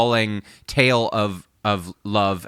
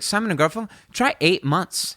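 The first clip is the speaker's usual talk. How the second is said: high, emphatic retold boast, slowing at the end; fired-up producer; 8 semitones higher than usual. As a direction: mimic a worked-up record man, stretching the punchline. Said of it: "He's so fired up".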